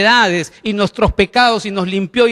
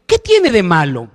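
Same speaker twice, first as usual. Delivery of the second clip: tempting voices. Retold or imitated. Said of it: "esas voces de decir".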